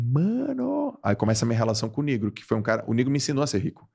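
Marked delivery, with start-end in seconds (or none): 0.0-1.0 high, drawn-out rising exclamation; retold amazement. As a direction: stretch it upward in disbelief. Retells own amazed reaction.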